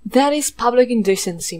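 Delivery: loud scandalised scold; hammed-up prudish outrage; mock outrage. Real, not acted. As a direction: play shocked at the indecency. Scolding character's skirt.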